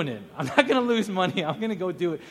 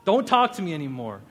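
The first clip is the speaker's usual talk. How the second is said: louder mock protest; playfully refusing the dare; mock outrage; 7 dB louder than usual. Mock reaction to Carmen's dare.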